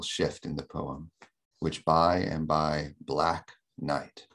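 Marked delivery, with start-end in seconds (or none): 1.6-4.3 slow "which by and by", then weight on "black night"; two strong stresses. Shown as a demonstration. Lecturer pointing out a metrical shift, slow double stress on black night. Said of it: "two strong stressed syllables there".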